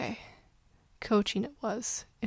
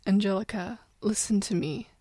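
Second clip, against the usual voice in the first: urgent. Acted. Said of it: "Crowley said urgently".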